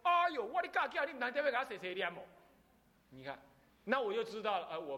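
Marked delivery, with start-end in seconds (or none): 0.0-2.2 mother's mock lament. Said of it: "那我妈就说".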